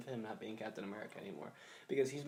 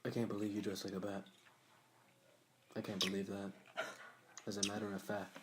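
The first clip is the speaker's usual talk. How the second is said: Cyborg impression; 5 semitones lower, 9 dB quieter than usual. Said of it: "he just sounded bad to me".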